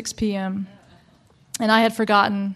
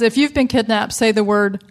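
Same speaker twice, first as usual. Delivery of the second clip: panicked husband; 6 dB louder than usual. Retold or imitated. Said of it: "He says".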